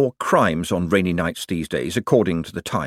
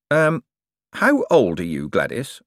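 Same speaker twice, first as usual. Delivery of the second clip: careful. Acted. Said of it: "said Moist carefully".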